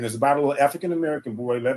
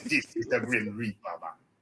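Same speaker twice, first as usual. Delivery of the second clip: put-on eerie Jamaican-accented voice; 3 semitones lower, 7 dB quieter than usual. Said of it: "slightly Jamaican thing, a voodoo Caribbean".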